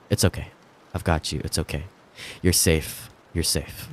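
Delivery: gentle soothing. Acted. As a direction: murmur reassurance to calm her. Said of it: "he said gently".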